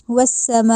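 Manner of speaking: والسماء with the م stretched to three alifs; long meem. Shown as a demonstration. Teacher models والسماء with long drawn meem. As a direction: draw out the mee in والسماء. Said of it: "اس میم کو لمبا کیا ہے".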